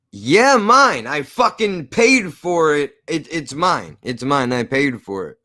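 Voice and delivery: insistent, building then fading; indignant. Retold or imitated. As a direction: hammer home that it's yours. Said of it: "Not theirs, yours".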